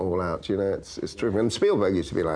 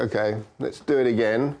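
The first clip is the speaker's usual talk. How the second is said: sarcastic. Retold or imitated. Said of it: "very sarcastic".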